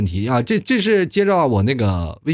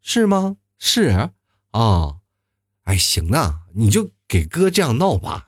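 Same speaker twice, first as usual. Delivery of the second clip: drawn-out, unhurried Inner Mongolian way of talking; mock slow drawl of the steppe; slow Inner Mongolian speech; 2 semitones lower, slower than usual. Shown as a demonstration. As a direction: stretch every word like a slow Inner Mongolian speaker. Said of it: "内蒙人说话的速度是这样的".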